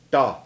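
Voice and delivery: DA in one syllable with an unaspirated t; soft t. Shown as a demonstration. Teacher repeats the soft one for learners, DA unaspirated. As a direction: start DA gently on a d-like t, no gap. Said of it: "Here's the soft one".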